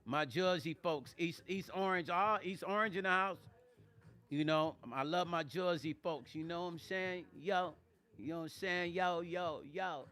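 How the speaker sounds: playful, hammed-up Jersey accent; exaggerated Jersey accent. Shouting out her Jersey folks, exaggerated Jersey accent. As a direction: lay the Jersey vowels on thick. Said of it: "over-exaggerating my Jersey accent".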